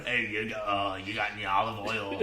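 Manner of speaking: low, lightly faked Italian accent; bad Italian accent. Co-host attempts a mobster asking for oil, bad Italian accent. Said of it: "I can't do accents".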